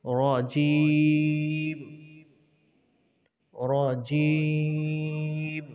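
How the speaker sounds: রজিম with a short ro, drawn out in chant; correct rojim. Shown as a demonstration. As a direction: chant রজিম slowly, not রাজিম. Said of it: "এখানে রাজিম বলবো না".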